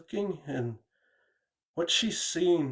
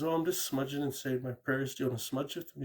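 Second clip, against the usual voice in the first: softer, gentle easy offer; calm; 3 dB quieter than usual. Retold or imitated. Mom calmly inviting her cousin to smudge, softly. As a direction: keep it unbothered and soothing. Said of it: "My mom just calmly says".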